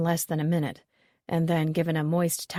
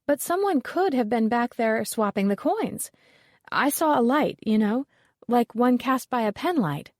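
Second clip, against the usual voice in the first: higher and louder, eager discovery; excited; 5 semitones higher, 4 dB louder than usual. A narrator's reading. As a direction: tell it like a breakthrough. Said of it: "she continued excitedly".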